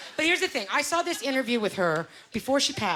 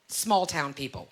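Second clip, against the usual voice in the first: "small town people" drawn out slowly, lower; pointed euphemism; 4 semitones lower, slower than usual. Acted. Pointed euphemism for her parents.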